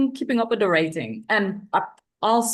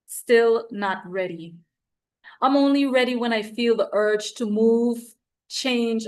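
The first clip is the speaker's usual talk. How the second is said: poem reading; 2 semitones higher than usual. Acted. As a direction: let each image land with deliberate pauses. Reads her poem at open mic.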